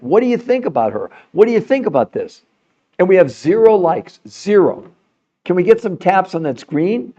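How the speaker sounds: straining, pushing voice; strained voice. Real, not acted. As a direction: voice worn from pushing. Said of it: "I'm even losing my voice".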